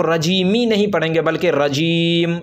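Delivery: रजीमी spoken, then रजीम with the final मीम stopped; pausal form. Shown as a demonstration. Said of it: "अगर रुकेंगे". (रजीमी नहीं, रजीम, मीम पर रुककर)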